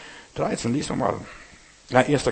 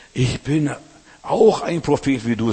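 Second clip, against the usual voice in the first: sly smart-aleck; 3 semitones higher, 5 dB louder than usual. Retold or imitated. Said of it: "sagte so schlau dieser Schlaumeier".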